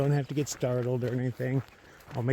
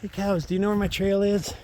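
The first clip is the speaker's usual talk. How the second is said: calling out; 8 semitones higher, 8 dB louder than usual. Real, not acted. Calling out to cows.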